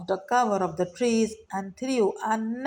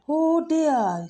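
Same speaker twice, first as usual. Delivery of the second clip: high, small squeak of fear; squeaky mouse; 7 semitones higher, 3 dB louder than usual. A narrator's reading. Frightened mouse squeaks to the lioness. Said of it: "squeaked Mouse".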